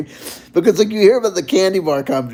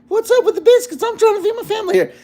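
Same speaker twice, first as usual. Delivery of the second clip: much higher put-on Southern lady voice, fast at the end; mock Dollywood lady; faster than usual. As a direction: squeak it out like a fussy Dollywood lady complaining. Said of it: "R I P Dollywood lady kind of video".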